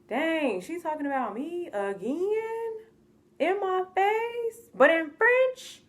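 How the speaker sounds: high, slow, incredulous; mock disbelief. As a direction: stretch out the outrage slowly. Reacting to mom's French insult.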